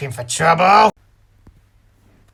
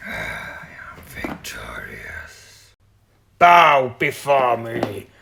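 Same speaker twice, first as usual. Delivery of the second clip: dark lord; 4 semitones lower, slower than usual. Acted. Villain gloating over his win.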